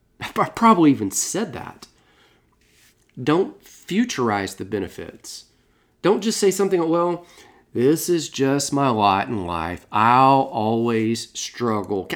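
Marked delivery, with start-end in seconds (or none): 7.7-12.1 slow, drawn-out, gloomy, mopey cartoon donkey voice. Giving an example of what not to say, the speaker uses an Eeyore voice. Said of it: "Kind of like with this Eeyore voice".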